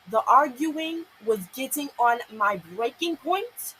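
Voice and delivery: slow and drawn out with exasperation; fed up, every word stretched; slow, exasperated. Real, not acted. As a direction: spell it out word by word.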